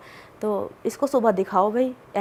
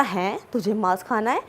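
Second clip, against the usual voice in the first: mock-surprised question with rising tune; retold disbelief. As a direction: echo someone's incredulous double-take. Uncle's disbelief at meat demand, retold. (हैरानी भरे सवाल की नकल)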